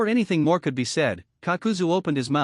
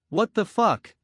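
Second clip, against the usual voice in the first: yelling; 6 semitones higher, slower than usual. A narrator's reading. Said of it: "Haydn yelled".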